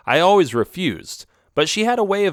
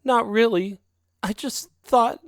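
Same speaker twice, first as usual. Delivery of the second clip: raised, pleading cat voice; higher-voiced girlfriend cat; 11 semitones higher than usual. Girlfriend cat pleading about her shabby alley home, higher voice. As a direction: sell the wish sweetly, voice up high. Isabel starts to cry.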